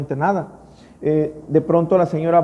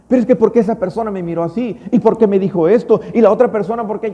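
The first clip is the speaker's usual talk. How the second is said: mock offended complaining; 4 semitones higher, 4 dB louder, faster than usual. Mimicking a resentful churchgoer.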